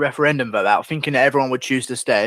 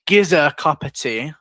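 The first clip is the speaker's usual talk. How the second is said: slow, lightly put-on Cockney; a touch of Cockney, drawn out; Cockney phrasing; 3 semitones higher, slower than usual. Shown as a demonstration. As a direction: demonstrate it as a Cockney would. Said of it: "They say".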